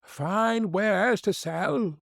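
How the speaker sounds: high, slow hawker's call; peddler's cry. Acted. Disguised queen calling at the dwarfs' door, slow high peddler's cry. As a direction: call out your goods at the door. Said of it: "knocked at the door and cried".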